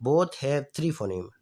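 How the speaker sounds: slow, word by word; slow dictation. Shown as a demonstration. Teacher reading the example aloud to students, slow. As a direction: read it slowly so they can note it down. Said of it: "اب دیکھیں یہاں پہ".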